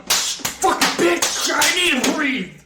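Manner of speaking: drawn-out, high hammed-up shriek; mock panicked scream. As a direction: scream as if fighting for air, exaggerated. Acts out panicked drowning fight.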